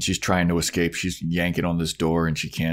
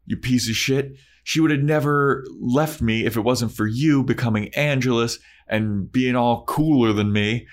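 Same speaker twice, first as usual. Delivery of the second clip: higher, put-on Spike accent, ranting; 6 semitones higher than usual. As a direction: rant at Angel in a mock Spike accent. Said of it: "They don't have you doing an accent".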